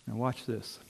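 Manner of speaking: a quiet hook for the crowd; hushed. Real, not acted. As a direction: drop low and soft to draw them in. Preacher drawing listeners in.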